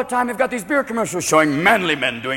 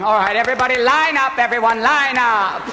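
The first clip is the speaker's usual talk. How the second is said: ballet choreographer; 3 semitones higher than usual. Acted. Choreographer addressing football team.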